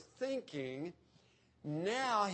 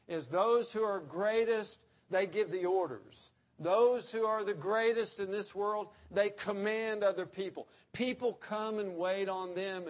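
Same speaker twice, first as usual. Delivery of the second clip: rising preaching emphasis; 3 semitones higher, 5 dB louder than usual. Acted. Preacher builds on worldly greatness.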